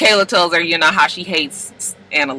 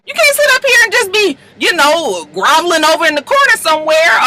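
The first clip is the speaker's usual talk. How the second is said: high, loud scolding; scolding shout; 9 semitones higher, 3 dB louder than usual. Retold or imitated. Annalise pushing her client to fight, high loud scolding. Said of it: "And Annalise was like".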